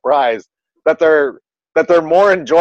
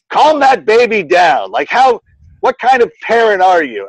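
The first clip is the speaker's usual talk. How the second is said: judgy scold; 7 semitones higher, 3 dB louder than usual. Retold or imitated. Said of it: "I was like".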